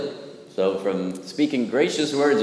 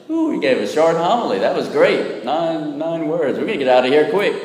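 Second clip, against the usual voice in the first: higher-pitched pleased chatter; mock delight; 5 semitones higher than usual. Churchgoers hearing a nine-word homily, mildly mock-delighted. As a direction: play a lightly hammed-up, relieved churchgoer.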